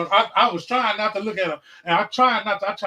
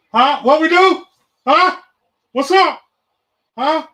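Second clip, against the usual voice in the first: much higher and louder teasing calls; taunting calls; 9 semitones higher, 10 dB louder, slower than usual. Real, not acted. Ravens fan taunting the Cowboys fans in chat, loud gleeful taunt. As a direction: needle the rival fans, gleeful.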